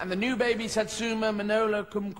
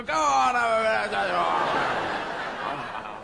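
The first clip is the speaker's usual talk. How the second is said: offering excitedly; 3 dB louder, slower than usual. Retold or imitated. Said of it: "you go".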